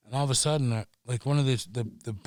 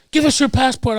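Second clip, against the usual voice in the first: high, louder yell of stop; mock cop order; 11 semitones higher, 5 dB louder than usual. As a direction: bark it like a French cop. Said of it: "they're like".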